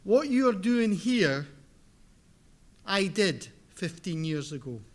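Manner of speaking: thick Scottish accent, speaking deliberately; strong Scottish lilt throughout; broad Scottish accent. Real, not acted. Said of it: "my very thick Scottish accent".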